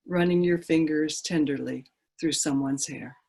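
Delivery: measured poem reading with long pauses between lines; poetry reading. Acted. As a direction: read a poem aloud, letting each phrase settle and fall at the end. Reads her own poem aloud.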